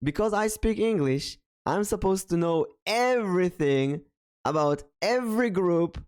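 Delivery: bothered, exasperated. Real, not acted. Streamer vents about impossible community expectations, exasperated. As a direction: pile up the list in exasperation. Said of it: "that's something that really bothers me".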